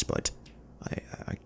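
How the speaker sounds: hushed confession of helplessness; a whispered admission he can't let her go. Acted. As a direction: breathe it out, barely voiced.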